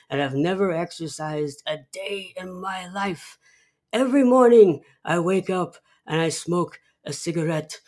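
put-on a touch of cranky elderly father lecturing his son; Burgess Meredith. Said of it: "Burgess Meredith replies".

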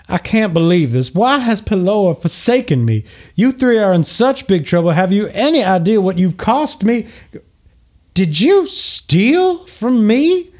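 high, indignant little tiefling voice, rising to an outraged peak; a furious small fiend who can't believe he's been robbed; angry little tiefling. Acted. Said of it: "an angry little tiefling".

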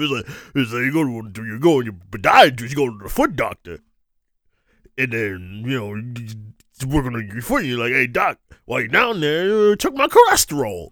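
light mock Southern voice, rambling on; Southern accent. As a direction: retell it as the Southern gentleman, amused. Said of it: "my go-to Southern accent. This is just kinda like what he sounded like".

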